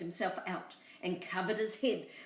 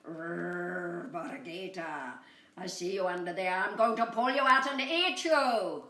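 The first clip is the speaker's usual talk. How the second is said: growling coyote; 5 dB louder than usual. Acted. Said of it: "he growled".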